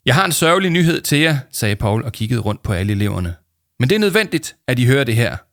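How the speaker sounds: high, loud solemn voice; hammed-up solemn announcement; grave Paul. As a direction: deliver bad news with mock gravity. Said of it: "med en alvorlig stemme".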